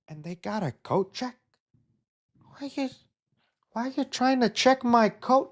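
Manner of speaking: hammed-up impression of a comedian asking about coat check. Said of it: "that was my best impression".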